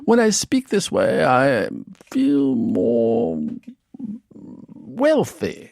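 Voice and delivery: British accent, a touch wealthy. Shown as a demonstration. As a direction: say it in a British accent, feeling rich. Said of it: "If I were to ask you to say this sentence".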